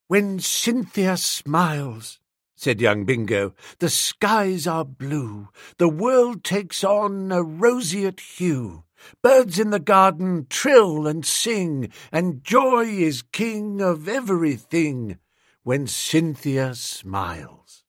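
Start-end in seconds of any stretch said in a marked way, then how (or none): 0.1-2.2 slow, dreamy recital; poem recital. Acted. Bingo recites his poem. 3.8-17.8 slow, dreamy recital; poem recital. Acted. Bingo recites his poem.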